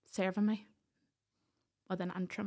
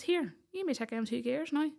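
higher, gruff imitation of a Northern Irish farmer dad; blunt dairy-man dad; 5 semitones higher than usual. Daddy taking the phone from the sheriffs, blunt imitation. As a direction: play the no-nonsense dad taking over the call. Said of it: "typical Northern Ireland dairy man".

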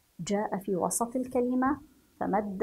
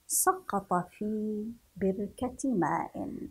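drawn-out reading of سقط في بركة ماء; slow reading; 3 dB quieter, much slower than usual. Shown as a demonstration. Teacher to children, slow and deliberate. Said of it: "repeated sentence".

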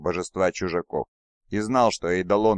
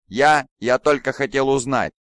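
panicked; 6 semitones higher, 6 dB louder than usual. A narrator's reading. Commander panicking.

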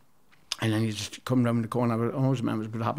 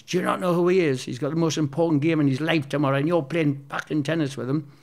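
retold shouting; 3 semitones higher than usual. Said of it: "I could hear him shouting".

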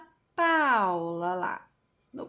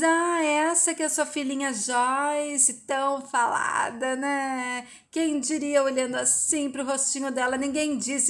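provocative taunting; 3 semitones higher than usual. Acted. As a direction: needle them with stretched, insinuating words. Paula taunts Helena about her daughter.

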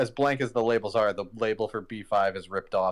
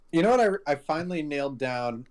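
excited; 5 semitones higher than usual. Real, not acted. Sudden realization about accent.

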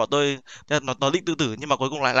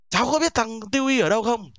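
imitating the mother; 8 semitones higher than usual. Mother asking about son.

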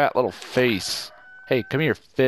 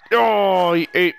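surprised; 8 semitones higher, 6 dB louder than usual. Real, not acted. Fish takes bait.

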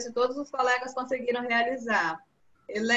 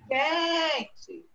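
"quente" with QUEN stretched out; stress on the first syllable; 3 semitones higher than usual. Shown as a demonstration. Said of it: "a sílaba mais forte".

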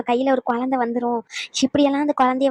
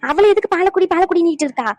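raised, higher objecting voice; indignant protest; 4 semitones higher, 4 dB louder than usual. Acted. Objecting to milk being forced on the girl, indignant. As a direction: challenge the elder for pushing the child.

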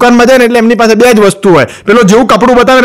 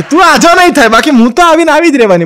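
mock wife voice; 6 semitones higher than usual. Wife's defiant retort in joke.

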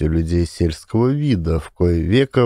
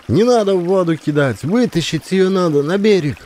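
1 commanding woman; 8 semitones higher than usual. A narrator's reading. Peasant woman directing the boys.

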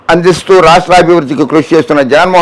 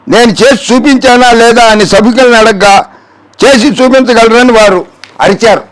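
higher-pitched, emphatic quote reading; declamatory read-out; 5 semitones higher than usual. Acted. Host reading out an opponent's claims to rebut, declamatory.

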